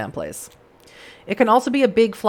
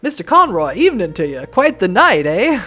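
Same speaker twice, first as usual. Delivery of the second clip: lightly put-on Western accent for a stranger; eerie stranger with a touch of Western accent. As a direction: play up a Western accent, lilting. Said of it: "why I'm giving him that voice".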